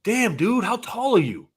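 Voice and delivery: imitating the guy. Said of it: "he goes".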